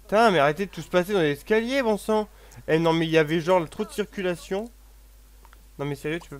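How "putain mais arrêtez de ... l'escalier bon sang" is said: exasperated, raised voice; fed up, let it out; annoyed outburst. Real, not acted. Annoyed at people on stairs.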